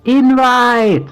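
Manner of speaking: screamy voice; shrill shriek. Real, not acted. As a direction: shriek the word loud and high. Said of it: "do a screamy voice".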